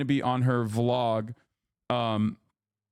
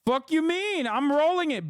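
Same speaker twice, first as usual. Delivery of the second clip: high-pitched defensive protest; 9 semitones higher than usual. Real, not acted. Vlogger mock-indignant at a chat correcting his birria, high squeal. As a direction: squeal back an indignant comeback.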